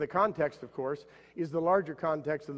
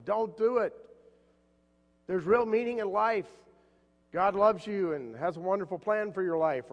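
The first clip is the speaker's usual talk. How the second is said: higher, calling out to a man on a bridge; retold shout; 5 semitones higher than usual. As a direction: call out to save him, mock urgent. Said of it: "shouted out to him".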